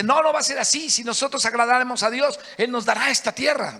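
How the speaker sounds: courageous answer; brave reply. Retold or imitated. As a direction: stand firm and declare it bravely. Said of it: "valientemente dice".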